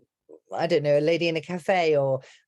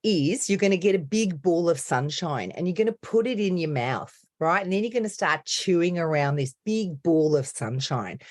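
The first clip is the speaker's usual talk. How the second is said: chewy Australian accent. Shown as a demonstration. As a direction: coach demonstrating a big, sunny Australian accent. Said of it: "when I start to do the Australian accent".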